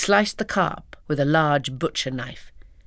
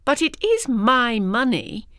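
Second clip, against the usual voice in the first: cried in anger; 8 semitones higher, slower than usual. Acted. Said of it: "I cried in anger".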